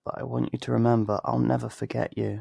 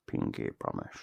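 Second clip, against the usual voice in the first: whisper; 8 dB quieter than usual. Acted. Whispered pinky promise at parting.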